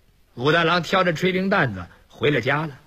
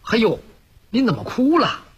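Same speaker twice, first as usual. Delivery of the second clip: put-on young Yun Ge; 4 semitones higher than usual. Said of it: "他一瞅运哥又追上来了".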